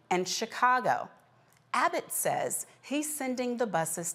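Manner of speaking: measured anchor read with deliberate pauses; news read. Acted. Anchor telling viewers about migrants shipped from Texas, news read.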